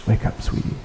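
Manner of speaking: whispered wake-up call, soft and loving; tender whisper. Shown as a demonstration. Jesus wakes the little girl, tender whisper. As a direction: breathe it like waking a sleeping child. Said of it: "Tenderness, kindness, love".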